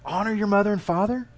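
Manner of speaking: sarcastic, angsty. Acted. Preacher as Jesus reciting commandments to the man, sarcastic. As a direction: list them pointedly with a touch of sarcasm. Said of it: "Kind of some sarcasm with a little bit of angst".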